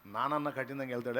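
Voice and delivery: usual speaking voice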